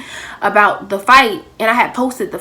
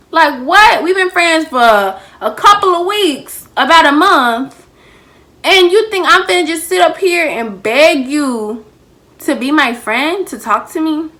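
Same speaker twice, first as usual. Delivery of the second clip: indignant; 4 semitones higher, 3 dB louder than usual. Retold or imitated. Indignant retort to friend.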